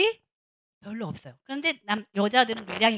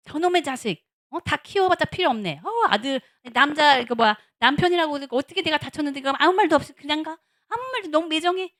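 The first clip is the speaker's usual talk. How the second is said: mock scolding; 2 semitones higher, 5 dB louder than usual. Hurt mother scolding son, husband.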